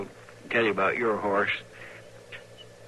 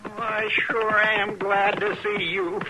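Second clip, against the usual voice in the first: relieved; 8 semitones higher, slower than usual. Acted. Relief at rescue.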